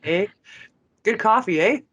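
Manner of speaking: lightly hammed-up Canadian, each eh tossed up as a tag question; mock Canadian eh. Canadian host teasing his British guest, mild mock Canadian accent. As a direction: play the Canadian cliché for a laugh, just a hint of accent. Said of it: "Can I say "eh" a couple of times in a row?".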